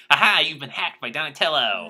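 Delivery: loud triumphant villain cry; gloating shout. Retold or imitated. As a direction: crow it out loud. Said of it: "and he's like".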